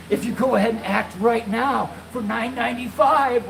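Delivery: slow, drawn-out infomercial pitch; telemarketer voice. Retold or imitated. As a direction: stretch out the price like a salesman. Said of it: "one of those telemarketer guys".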